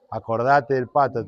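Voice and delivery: accusing devil. Acted. Diablo repite.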